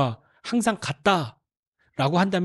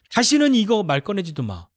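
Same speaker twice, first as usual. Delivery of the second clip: a touch higher, stern and final; firm command; 5 semitones higher than usual. Retold or imitated. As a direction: shut the subject down for good. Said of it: "그것도 너무 단호하게".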